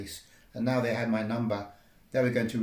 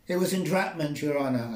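calling out; 5 semitones higher, 3 dB louder than usual. Acted. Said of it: "I called out to the presiding A I".

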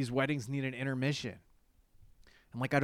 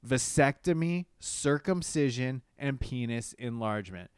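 incredulous; 5 dB louder than usual. Real, not acted. Incredulous repeat of list.

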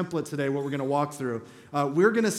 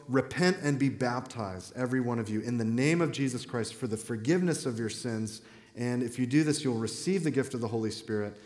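solemn lower voice; 5 semitones lower, 4 dB quieter than usual. Retold or imitated. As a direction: lower and softer, earnest call to repent. Peter answers the convicted crowd.

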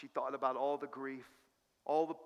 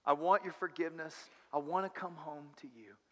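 modeled prayer. Shown as a demonstration. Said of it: "in your heart and say".

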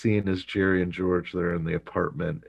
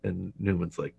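ordinary talk, nothing marked

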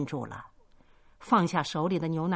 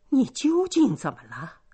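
higher, louder third demand; insistent demand; 7 semitones higher, 5 dB louder than usual. A narrator's reading. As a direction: press her hard for an answer. 母亲第三次追问. (提高嗓门再三追问)

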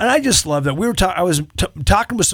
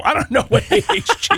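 1 laughing; faster than usual. Real, not acted. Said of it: "laughs over not knowing AHG".

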